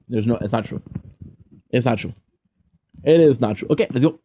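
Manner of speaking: talking through a mouthful of popcorn; munching popcorn. Real, not acted. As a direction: chew while you talk. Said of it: "Sorry for eating popcorn".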